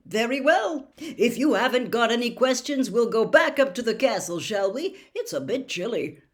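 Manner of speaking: brisk, bouncy enthusiasm; upbeat announcer of a fun contest; cheery Bagman. Acted.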